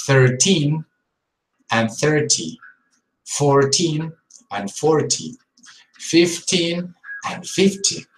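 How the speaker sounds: put-on "thirteen" stressed on teen, "thirty" on thir; slow, careful teen versus ty; number stress contrast. Shown as a demonstration. Teacher contrasting number stress slowly. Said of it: "they get confused between".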